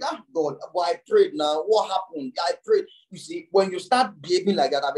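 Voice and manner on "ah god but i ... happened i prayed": worried complaint. Retold or imitated. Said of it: "You now begin to get worried".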